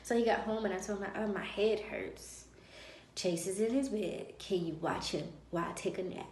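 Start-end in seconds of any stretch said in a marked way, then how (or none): 1.2-6.3 telling her husband off by asking for a nap; with attitude. Retold or imitated. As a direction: drag it out to make a point. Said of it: "I had attitude and everything".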